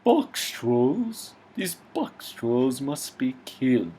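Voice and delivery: high, sneering villain voice; cartoon villain. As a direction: spit out Box Trolls with scorn. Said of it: "the villain".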